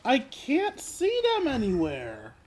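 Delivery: high, stretched-out complaint; exasperated complaint. Real, not acted. Player failing to find the footprints, high exasperated complaint. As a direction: draw it out high, at a loss.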